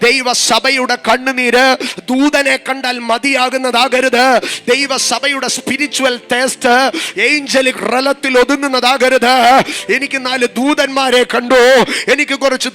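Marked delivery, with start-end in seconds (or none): 0.1-9.3 emphatic preaching. Real, not acted. Sermon climax, slow emphatic.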